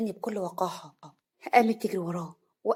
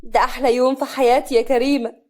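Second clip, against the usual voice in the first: louder, beaming bride; happy; 3 semitones higher, 8 dB louder than usual. A narrator's reading. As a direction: gush with delight. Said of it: "صفيه فرحه". (بفرح)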